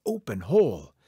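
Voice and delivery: called command, a burst of volume; calling out. A narrator's reading. Coyote, shut inside the tree to be safe, calling out. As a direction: call it out firmly. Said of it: "he called out".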